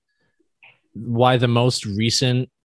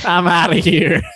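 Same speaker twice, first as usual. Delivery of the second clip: higher attempt at a Southern accent that slips away; badly faked Southern accent, pitched up; the speaker with lost accent; 6 semitones higher, 4 dB louder than usual. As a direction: try a Southern accent and lose it. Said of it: "You didn't keep the accent".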